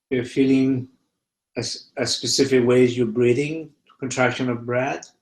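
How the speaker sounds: unhurried meditation teacher with long pauses; guided meditation. Real, not acted. Teacher guiding listeners to feel fear in the body, meditative.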